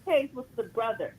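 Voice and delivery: distant caller, far from the phone; speaking away from the phone; phone held away. Real, not acted. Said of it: "You sound like you're far away from the phone".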